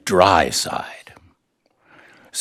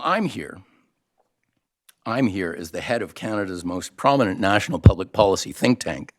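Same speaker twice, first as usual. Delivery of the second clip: ordinary delivery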